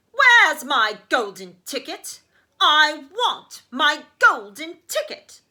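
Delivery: loud, slow whining demand; spoilt child screaming. Acted. Veruca screams at her father, loud and slow. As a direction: wail it like a spoilt brat. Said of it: "she would scream at me".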